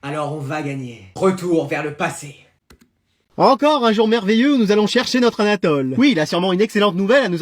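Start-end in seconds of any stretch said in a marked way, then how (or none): 0.0-2.3 slow, much softer, lower announcement; ominous low voice. Acted. Announcing a flashback, slow low hush. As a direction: drop low and slow like a trailer voice.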